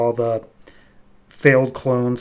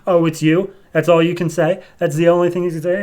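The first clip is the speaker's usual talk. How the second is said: louder, rising disbelief at it's you; incredulous echo; 5 semitones higher, 4 dB louder than usual. Retold or imitated. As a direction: throw her words back, outraged. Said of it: "And Priscilla's like".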